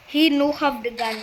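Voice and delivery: teasing broken-English repeat; mock broken English. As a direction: toss it off in joking pidgin.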